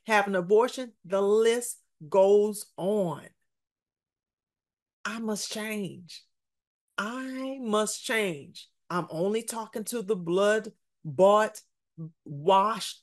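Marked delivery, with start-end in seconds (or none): 5.0-8.7 hushed resolve. Acted. Preacher slows down on a key line.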